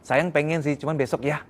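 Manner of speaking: gentle refusal. Shown as a demonstration. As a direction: soothe him, lift on "ya". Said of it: "ngomongnya yang baik".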